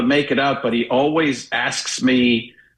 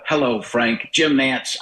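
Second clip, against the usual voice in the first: Nantz greeting; slower than usual. Retold or imitated. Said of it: "the greeting would have been".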